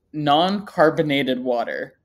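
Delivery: ordinary talk, nothing marked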